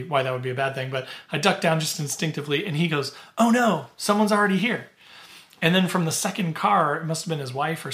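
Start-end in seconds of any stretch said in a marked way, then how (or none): 3.4-4.9 a lightly voiced startled man, a bit higher; mild mock dismay at a taken spot; man in a car finding the campsite taken, mildly dismayed; startled camper. Man spots their car at night.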